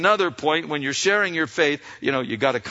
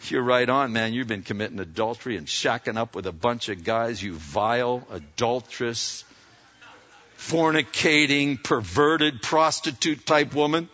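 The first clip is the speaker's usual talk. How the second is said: mock condemnation; 4 semitones lower than usual. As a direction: pile on the insults with mock scorn. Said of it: "Is that what he says? No".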